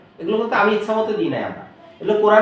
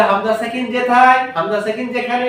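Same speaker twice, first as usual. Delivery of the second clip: put-on child answering; 3 semitones higher than usual. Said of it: "ও বলবে".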